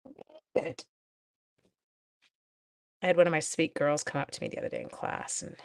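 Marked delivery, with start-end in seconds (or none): 0.0-0.8 high, playful Irish leprechaun lilt; squeaky little Irish leprechaun voice. Pretend. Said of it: "it sounds like a leprechaun".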